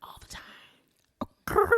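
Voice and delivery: slow whispered hint of a rapper; attempted rapper impression. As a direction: play at a sultry rapper. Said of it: "What is that?".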